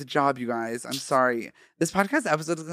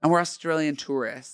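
put-on Australian accent. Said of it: "I can't do an Australian accent".

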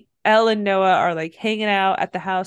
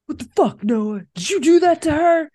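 mock accusation; 6 semitones higher, 4 dB louder than usual. Retelling brother's accusation.

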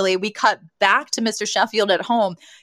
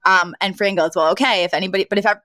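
tripping over her own words; fumbling the words mid-sentence; stumbling over words; faster than usual. Real, not acted. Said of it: "ugh, I'm stumbling on my words".

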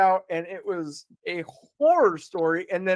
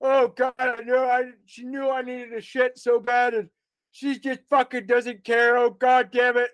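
raised, exasperated cursing at the absent wife; higher-pitched retold panicky rant; dad freaking out; 5 semitones higher than usual. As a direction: rant like a desperate dad who badly needs the toilet. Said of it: "freaking out".

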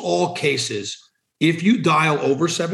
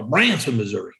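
lightly put-on Missouri accent, low and trailing off; made-up small-town Missouri accent; 4 semitones lower than usual. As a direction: slip into a hint of made-up local Missouri accent. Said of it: "I just made an accent up".

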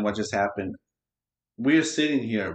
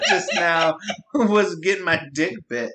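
laughing; 5 semitones higher than usual. Real, not acted. Laughing retelling dog bite.

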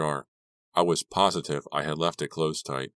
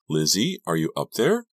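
calling up; 2 semitones higher, 4 dB louder than usual. Acted. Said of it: "A voice called up".

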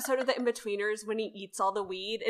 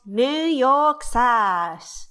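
ad read voice; 4 semitones higher, 5 dB louder, much slower than usual. Retold or imitated. Quoting the commercial line.

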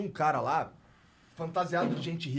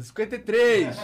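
loud bid; 5 semitones higher, 9 dB louder than usual. Retold or imitated. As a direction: call out the bid loudly. Bidding war at auction.

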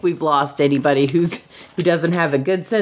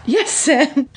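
hammed-up moaning; 7 semitones higher than usual. Reading Frodo's line, high voice.

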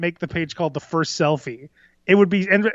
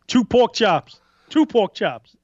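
higher, demanding prison boss voice; Suge Knight voice; 4 semitones higher, 3 dB louder than usual. Pretend. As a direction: bark the order like a jail kingpin. Voicing Suge at commissary.

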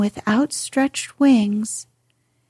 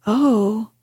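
consternation. A narrator's reading. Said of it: "he cried in some consternation".

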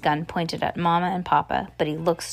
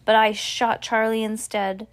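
anguished cry; 5 semitones higher, 5 dB louder than usual. A narrator's reading. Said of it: "Ellis Dixon moans and cries".

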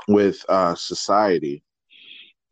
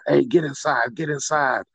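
raised-pitch retold command; retold police yelling; 6 semitones higher than usual. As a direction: imitate cops ordering people indoors. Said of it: "they was yelling and screaming at 'em".

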